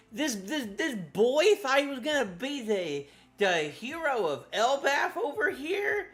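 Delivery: high mock outrage; shaking with anger. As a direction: scold him in hammed-up indignation.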